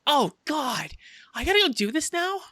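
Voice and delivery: high, whining complaint; high-pitched put-upon whine; whiny Harley voice. Acted.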